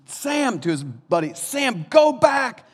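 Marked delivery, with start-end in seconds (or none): 0.0-0.6 high-pitched mock hero calling his buddy; put-on plaintive hobbit call; Frodo. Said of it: "He goes". 1.3-2.7 high, loud hammed-up hobbit cry; mock-heroic farewell at high pitch; Frodo. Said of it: "He goes".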